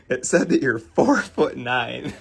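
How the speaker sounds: slowed words breaking into laughter; laughing through it. Real, not acted. Quoting the date's punchline, he laughs through it. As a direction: try to get the line out while cracking up. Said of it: "I can't even say it without laughing".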